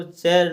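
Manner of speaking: चेयर said as one syllable "cher"; wrong reading. Shown as a demonstration. Teacher rejects the chart reading, चेयर said "cher". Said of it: "चेयर नहीं पढ़ेंगे".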